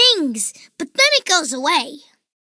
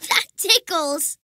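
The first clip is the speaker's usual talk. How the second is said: laughing. Pretend. Otoscope in ear tickles.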